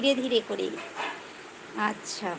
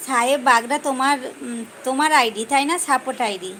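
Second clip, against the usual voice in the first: calling out; 7 dB louder than usual. Real, not acted. Calling out to a viewer.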